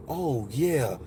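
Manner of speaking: low, gently approving; smooth woman's voice. Retold or imitated. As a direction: imitate a soothing woman agreeing. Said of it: "it was just the smoothest".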